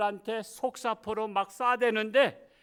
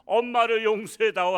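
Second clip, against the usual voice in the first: loud, higher begging for forgiveness; tearful plea; 3 semitones higher, 7 dB louder than usual. Retold or imitated. Mother begging her son, loud tearful plea. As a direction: beg the son's forgiveness through tears. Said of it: "눈물 흘리면서".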